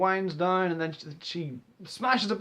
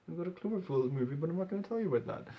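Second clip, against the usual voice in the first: sly aside; 7 dB quieter, faster than usual. Retold or imitated. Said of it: "do this over here".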